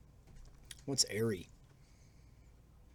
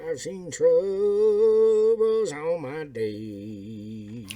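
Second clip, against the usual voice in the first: put-on slow, drawn-out old radio voice; old-timey radio announcer; 5 semitones higher, 7 dB louder, much slower than usual. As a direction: speak into the glass like vintage radio. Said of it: "Like an old-timey radio announcer".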